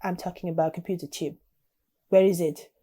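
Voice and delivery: badly faked Russian accent. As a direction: demand answers in a makeshift Russian accent. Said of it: "he says in a thick Russian accent".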